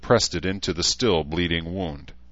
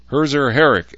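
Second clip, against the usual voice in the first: loud, raised-pitch summons; called out; 8 semitones higher, 8 dB louder than usual. A narrator's reading. Edmund summoning a recruit from the ranks, called out loudly. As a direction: call the name out across a formation. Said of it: "Edmund called".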